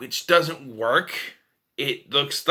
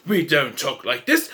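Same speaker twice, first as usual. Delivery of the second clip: put-on lower, restrained British accent; mock British accent; 3 semitones lower than usual. Mimicking the film's wrong accent for Romans, British accent. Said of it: "Why do they talk like they're British?".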